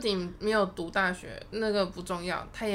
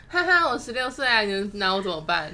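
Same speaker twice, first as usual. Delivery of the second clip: cheeky laughing quote; 6 dB louder than usual. Retold or imitated. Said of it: "截然不同的疯法".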